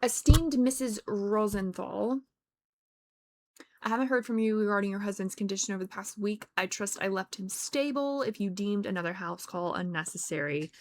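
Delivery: put-on a light British accent reading a formal letter. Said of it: "speaking in this British, British accent".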